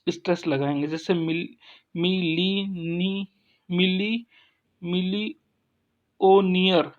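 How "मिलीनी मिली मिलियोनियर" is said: मिलियोनियर broken up slowly, ending on a separate नियर; teacher slowly building up मिलियोनियर piece by piece; syllable-by-syllable demo. Shown as a demonstration. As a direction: sound out मिलियोनियर in slow pieces, setting off नियर. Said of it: "नियर पे आप stress लगाएंगे".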